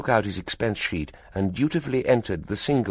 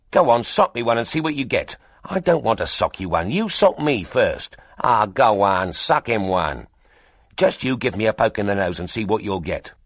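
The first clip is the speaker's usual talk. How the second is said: mild, louder taunting; squabbling photographers; 3 semitones higher, 3 dB louder than usual. Acted. Rival photographers daring each other to punch, louder. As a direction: goad him into swinging first.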